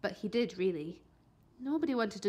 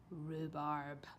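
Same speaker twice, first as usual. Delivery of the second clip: ordinary delivery, nothing marked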